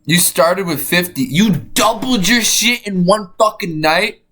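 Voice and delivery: high, astonished outburst; amazed disbelief. Real, not acted. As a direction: react stunned, pitch climbing as it sinks in. Amazed at friend's subscriber jump.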